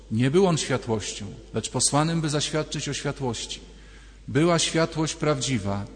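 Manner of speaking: measured, solemn Gospel reading; scripture reading. Acted. Priest reading John's Gospel to the congregation, solemn reading.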